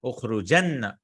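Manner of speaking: "Ukhrujanna" with a firmly doubled n; emphatic double noon. Shown as a demonstration. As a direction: hit "jann" in "Ukhrujanna" and release into "na". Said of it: "Very emphatic".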